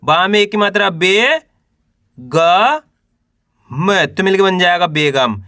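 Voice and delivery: drawn-out letters with pauses between; teacher's spelling drill, held rising syllables; syllable-by-syllable sounding out. Shown as a demonstration. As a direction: sound out each letter for beginners to repeat. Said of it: "चलिए एक बार फिर से देखिए".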